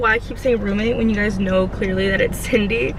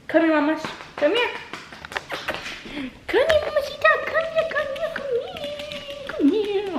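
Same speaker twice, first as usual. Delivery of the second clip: puppy talk; 5 dB quieter than usual. Real, not acted. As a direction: coax the puppy over in a squeaky voice. Calling the puppy over.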